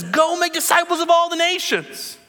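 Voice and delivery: high, ringing command; voicing Jesus. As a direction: call them out as Jesus. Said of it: "he says".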